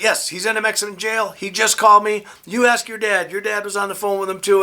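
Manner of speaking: lightly acted maternal panic; frantic mom. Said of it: "My mom is all frantic".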